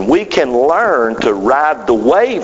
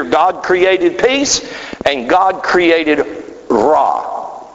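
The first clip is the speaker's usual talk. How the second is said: slow reading; much slower than usual. Acted. Preacher reading scripture slowly.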